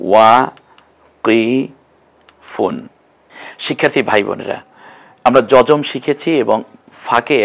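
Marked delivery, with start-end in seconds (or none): 0.1-2.9 ওয়াকিফুন stretched very slowly, each syllable held; drawn out Arabic reading. Shown as a demonstration. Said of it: "teacher repeats word slower". (ওয়াকিফুন খুব ধীরে টেনে টেনে পড়া)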